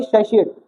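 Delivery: सेशिएट with SH in the middle; सेशिएट, middle syllable softened to "shee"; pronunciation with SH. Shown as a demonstration. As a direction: say सेशिएट with "shee", not "tee". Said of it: "क्या होती है?".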